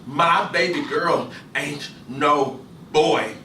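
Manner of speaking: slow stubborn father. Acted. Gus's voice in the story.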